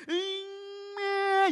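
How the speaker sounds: high drawn-out whimpering cry "으잉"; mock child crying. Preacher mimicking a fallen child's cry, high and drawn out. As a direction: imitate a toddler bursting into a whiny cry. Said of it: "이렇게 울어요".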